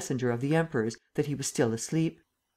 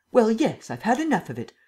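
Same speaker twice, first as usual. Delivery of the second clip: fed up; 7 semitones higher, 4 dB louder than usual. Acted. Emperor fed up, scolding.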